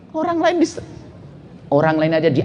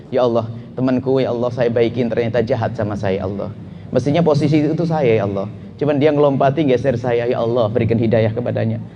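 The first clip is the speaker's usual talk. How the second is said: prayer; 6 semitones lower than usual. Shown as a demonstration. Prayer for a rival colleague.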